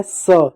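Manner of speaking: स said as a drawn-out "so"; plain hissing s in स, not sh; s sound. Shown as a demonstration. Teacher contrasting two letters for children, clear s sound. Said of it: "इन दोनों में अंतर देख लीजिएगा".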